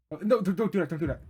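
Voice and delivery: hammed-up plea to the girl following; playful alarmed begging; mock panic. Reacting to the pursuing girl.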